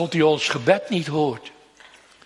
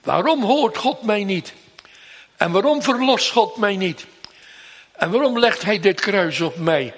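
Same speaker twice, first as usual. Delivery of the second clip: higher, quick, reproachful asking; complaining questions; 4 semitones higher than usual. Retold or imitated. Preacher imitating people quarrelling with God, mildly reproachful. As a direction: mimic a grumbling believer. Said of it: "we stellen allerlei vragen".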